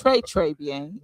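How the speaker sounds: slow Creole with a foreign missionary accent on "Trè, trè". Shown as a demonstration. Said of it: "can you give us a small demonstration".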